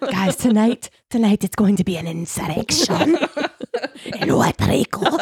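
breathy Trump voice. Retold or imitated. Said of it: "How do you think he says insurrection in that tone".

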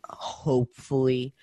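Hopefully drawn out slowly; a slow, weighted Hopefully; emphasis on Hopefully. Real, not acted. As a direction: lean on Hopefully, stretching it out. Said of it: "Emphasis on the hopefully".

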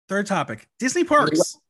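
excited announcement. Acted. Announcing topic with flourish.

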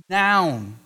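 "Noun" alone after a pause, firm falling tone; word set apart. Shown as a demonstration. Preacher explaining grammar, isolating "Noun" with weight. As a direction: drop "Noun" on its own like a gavel. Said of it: "the emphasis of that sentence is the".

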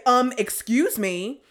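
slow, pointed excuse-me; pointed objection. Retold or imitated. To strangers who brushed past, pointed.

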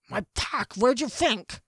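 muffled dwarf talking round a mouthful; food-muffled retort; mouth full of bread. Acted. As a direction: talk through a chunk of bread. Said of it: "the dwarf said through the bread".

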